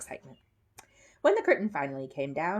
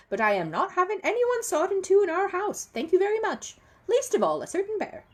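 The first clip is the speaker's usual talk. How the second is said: high, loud firm defence of the bear; lightly voiced stern Mrs Bird; stern housekeeper; 6 semitones higher, 4 dB louder than usual. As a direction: put the stranger in his place. Mrs Bird forbids the saw trick.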